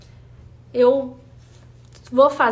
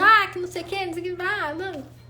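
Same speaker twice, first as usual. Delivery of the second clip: mock whining; 4 semitones higher than usual. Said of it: "eu chegava assim, reclamando".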